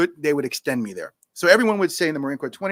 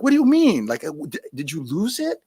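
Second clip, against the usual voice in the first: mock disbelief; 3 semitones higher, 3 dB louder than usual.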